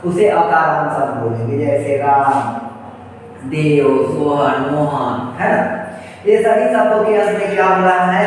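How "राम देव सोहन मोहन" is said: slow, stretched राम, देव, सोहन, मोहन with an audible final अ; final अ sounded. Shown as a demonstration. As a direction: draw out राम, देव, सोहन, मोहन slowly, letting the closing अ ring. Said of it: "अंतिम उच्चारण अ का ध्वनि निकल रही है".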